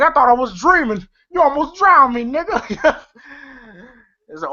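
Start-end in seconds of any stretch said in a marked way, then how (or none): 0.0-3.0 high indignant voice. Retold or imitated.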